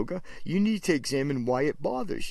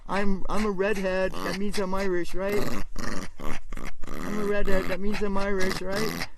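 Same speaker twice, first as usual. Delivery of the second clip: higher, playful dog voice; voicing the dog; 6 semitones higher, slower than usual. Owner voices his red chihuahua claiming to be Irish, higher playful voice. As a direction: give the dog a cheeky voice.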